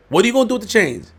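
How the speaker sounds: fast incredulous outburst; exasperated repeat. Real, not acted. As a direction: push the repeat up in disbelief.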